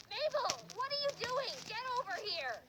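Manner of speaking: high-pitched scolding call; mock alarmed yell; lady yelling. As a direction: holler at a runaway child. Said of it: "some lady was yelling".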